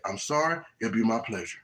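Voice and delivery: calm, accommodating service voice; polite employee. Acted. Chick-fil-A employee answering an upset customer, calm and courteous.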